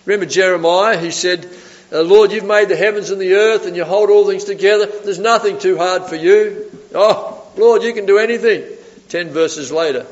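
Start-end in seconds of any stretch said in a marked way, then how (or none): 2.0-8.6 louder, lifted acclamation; exultant praise. Retold or imitated. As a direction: imitate a prophet rejoicing to God. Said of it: "rejoicing and praising the Lord".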